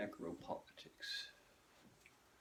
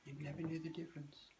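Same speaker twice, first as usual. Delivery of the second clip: Red Green impression; 6 semitones higher, 7 dB quieter, faster than usual. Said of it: "I do a much better red green".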